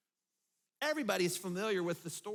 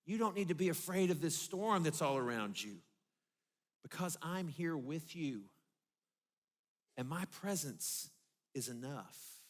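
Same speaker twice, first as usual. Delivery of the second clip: tender reassurance; 3 semitones lower than usual. Retold or imitated. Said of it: "he means".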